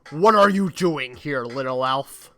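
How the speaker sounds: slow booming robot Santa; drawn-out villain greeting. Acted.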